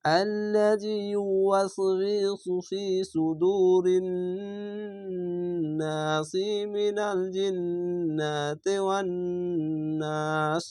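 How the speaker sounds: slow chanted recitation linking verses with নাসি; tajweed recitation without pauses; continuous Quran recitation. Shown as a demonstration. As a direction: chant through without stopping. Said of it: "না থামেন তাহলে এইভাবে পড়বেন".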